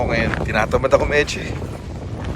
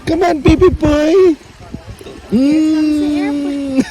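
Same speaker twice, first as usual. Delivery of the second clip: put-on baby talk; 11 semitones higher, much slower than usual. Feeding Robbie like a baby.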